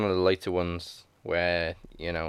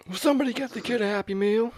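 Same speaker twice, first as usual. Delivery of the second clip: laughing quote; 14 semitones higher than usual. Retold or imitated. Repeating movie quote.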